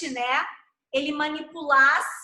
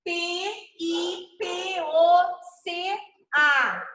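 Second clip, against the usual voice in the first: slow, letter-by-letter spelling; spelt out; 2 semitones higher, much slower than usual. Shown as a demonstration. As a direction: say each letter separately and evenly, drawn out. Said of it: "relação grafema-fonema".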